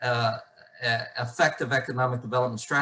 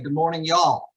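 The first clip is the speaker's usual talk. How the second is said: a token Southern twang for the greeting, slightly raised; perfunctory Southern accent; 3 semitones higher, 3 dB louder than usual. Shown as a demonstration. Keynote speaker greets the Ohio audience with a token Southern accent. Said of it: "accent and welcome by saying".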